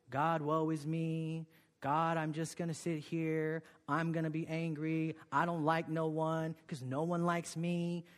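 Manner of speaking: slow, sulky woe-is-me complaint; mock self-pity, dragged slow; slow self-pitying moan. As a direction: drag it out like a sulking prisoner. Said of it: "he could be like".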